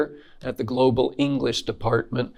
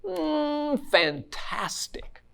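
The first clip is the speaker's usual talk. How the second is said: breathy whisper of "Mm, fantastic"; 11 semitones higher, 7 dB quieter, slower than usual. Shown as a demonstration. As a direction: savour it in a whisper. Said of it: "different answers".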